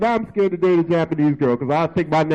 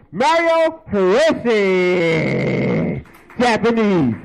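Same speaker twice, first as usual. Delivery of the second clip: drawn-out host announcement; slower than usual. Acted. Host announcing the next comic.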